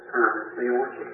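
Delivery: a hint of a dying wife's plea; feeble plea. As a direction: beg weakly with last strength. Feeble hands reaching up.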